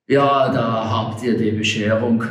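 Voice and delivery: mild angry exclamation; angry call. Acted. Frank calls out at the lost ladder, mildly angry. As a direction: call out with restrained anger. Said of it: "rief er zornig".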